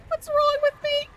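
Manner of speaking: high squeal through laughter; crying laughing. Real, not acted. Streamer laughing at herself, high laughing squeal. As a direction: laugh it out helplessly. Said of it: "I'm literally crying".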